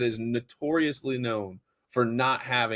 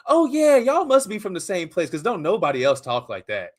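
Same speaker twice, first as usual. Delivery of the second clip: imagined realization; 5 semitones higher, 4 dB louder than usual. Acted. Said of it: "you're gonna be like".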